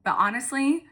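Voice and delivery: high, emotional voice, moved almost to crying; touched, near tears. Real, not acted. Coach moved by her team's reactions to the walk, emotional and high-pitched. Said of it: "You're gonna make me cry".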